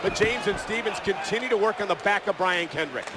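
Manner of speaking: live play-by-play call; wrestling commentator. Real, not acted. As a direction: call the action ringside.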